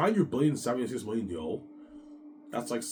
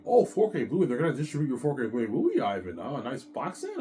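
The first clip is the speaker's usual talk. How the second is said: higher, louder delighted friend; voicing Peter; 4 semitones higher, 5 dB louder than usual. Peter thrilled about the Blu-ray, higher voice. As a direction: sell the excitement, pitched up. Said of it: "I'm like".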